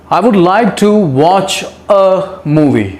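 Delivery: very slow, word by word; slow dictation. Shown as a demonstration. Teacher reading an example sentence slowly to students. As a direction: read slowly for the class. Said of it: "कुछ और sentences देख लेते हैं".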